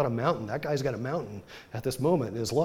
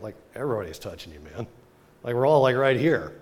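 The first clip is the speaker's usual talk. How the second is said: incredulous disciples; 5 dB louder than usual. Retold or imitated. Disciples mocking the question.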